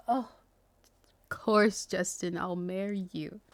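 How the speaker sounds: slow, fading, breathless yes; tearful squealing yes. Pretend. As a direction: accept the proposal close to tears. Acting tearful fanfic acceptance.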